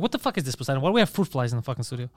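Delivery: quick mock New York accent. Shown as a demonstration. Comedian mocks the New York accent she finds stupid, New York accent. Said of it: "mais pas américain New York".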